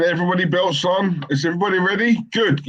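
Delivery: lightly voiced pilot announcement, rising in pitch; a hint of a pilot addressing the cabin; mock pilot. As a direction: build up to a comic punchline. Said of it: "that's the pilot saying".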